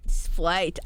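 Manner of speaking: Sprite said as splaɪt, r softened to an l; cute Sprite. Shown as a demonstration. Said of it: "I do say it like Sprite because it's cute".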